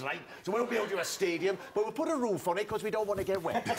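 a touch of boastful Cardiff swagger; lightly voiced Cardiff local. Cardiff locals mocking London ponces, boastful role voice. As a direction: play a proud local offering to build. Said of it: "of course, Cardiff loved it".

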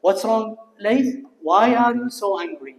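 slow, careful English for pupils; slow model reading. Shown as a demonstration. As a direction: read it slowly for the class. Teacher rereads quote slowly.

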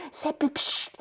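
unvoiced whispered call with a psst. Kasperl secretly waking the sleeping Seppel, whispered. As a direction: hiss his name so nobody else wakes.

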